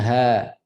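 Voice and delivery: "ha" as a loose, plain h from deep down; low throat ha. Shown as a demonstration. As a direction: let "ha" out without tightening the throat. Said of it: "Itu bawah". ("ha" bawah, tidak disepit)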